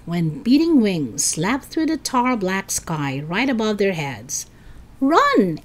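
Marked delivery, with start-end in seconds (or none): 5.0-5.6 higher, a mild acted scream. A narrator's reading. Eddie warning friends about wings above, screaming. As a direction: cry out in alarm. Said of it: "Eddie screamed".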